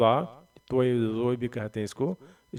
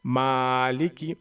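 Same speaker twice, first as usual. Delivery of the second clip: slow reading; much slower than usual. Shown as a demonstration. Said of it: "इसको ऐसे क्यों पढ़ा मैंने?".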